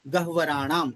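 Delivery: careful "गह्वराणाम", h before a full v; correct pronunciation. Shown as a demonstration. Teacher repeating for a student, careful pronunciation of "गह्वराणाम". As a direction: show the learner how "गह्वराणाम" sounds, h first. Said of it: "इस तरह इसका उच्चारण होगा".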